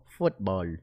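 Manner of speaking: "Football" said low and soft with a foreign lilt, like his mom; a mild hint of mom's accent; imitating his mom. Shown as a demonstration. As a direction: sound like mom saying "Football". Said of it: "I sound like my mom".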